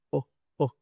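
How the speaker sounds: "O, O" clipped and short; short O demo. Shown as a demonstration. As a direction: clip the vowel "O" very short. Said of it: "O corta". (vocal "O" corta)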